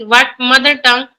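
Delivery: ordinary talk, nothing marked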